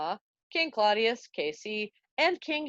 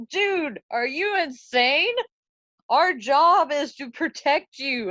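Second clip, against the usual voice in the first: alarmed guards; 4 semitones higher, 5 dB louder than usual. Acted. Guards panic at Hamlet's plan.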